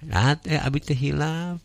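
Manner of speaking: "abi teh hilap" pitched well up; intonation demo. Shown as a demonstration. Teacher correcting the reader's phrasing, high tune on "abi teh hilap". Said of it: "kirang ieu ya dina intonasina".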